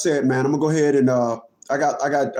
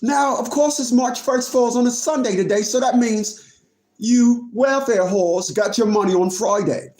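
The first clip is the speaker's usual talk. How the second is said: put-on British accent; 2 semitones higher than usual. Streamer telling viewers it's March first, put-on British accent. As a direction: deliver it as a pretend Brit. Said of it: "Great Britain accent".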